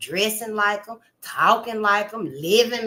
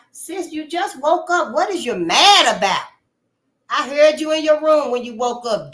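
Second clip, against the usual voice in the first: mock family nagging; 4 semitones higher, 5 dB louder than usual. Family voiced scolding sister.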